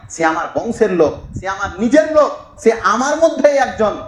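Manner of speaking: mock indignant protest. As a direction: act out a mild, mounting objection. Acting Mir Jafar's objection. (অভিনীত ক্ষুব্ধ প্রতিবাদ)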